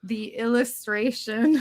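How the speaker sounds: "illustration" said slowly in place of "illustrious"; mispronounced on purpose. Retold or imitated. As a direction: draw out "illustration" as the old mistake. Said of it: "I kept pronouncing it wrong".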